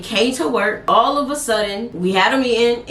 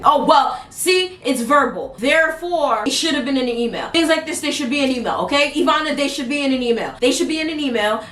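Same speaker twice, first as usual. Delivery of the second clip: higher, sarcastic boss voice; mocking boss voice; 4 semitones higher than usual. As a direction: lecture them snidely like the boss. Arthur mocked again.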